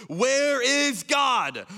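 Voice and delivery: loud, high, drawn-out demand; crying out. Acted. People so quick to ask where God is, crying out.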